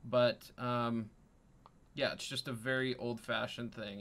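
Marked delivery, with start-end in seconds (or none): none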